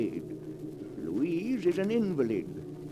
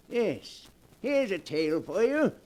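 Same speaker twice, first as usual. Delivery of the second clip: sinister storyteller host; 2 semitones higher than usual. Acted. Horror host introduces the tale.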